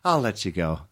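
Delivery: a hint of mom ending the call; mom's phone sign-off. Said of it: "that's how she ends it".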